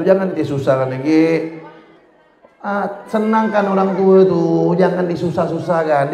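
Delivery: mock scolding. Ustaz scolds student as a mock rebuke.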